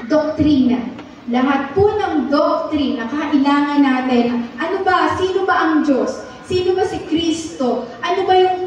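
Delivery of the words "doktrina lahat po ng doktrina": ordinary talk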